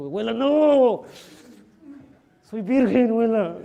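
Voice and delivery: high, loud, slow hammed-up plea; mock protest. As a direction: squeal it like a boy dodging kisses. Nieto protesta contra besos. (nieto protestando a la abuela, agudo, fuerte y exagerado)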